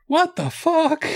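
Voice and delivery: high put-on voice of a shocked reader; Miss Ashley imitation. Friend imitates Miss Ashley shocked by a Bible verse, high mock outrage. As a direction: squeak it out as her sudden shock. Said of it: "And she's like".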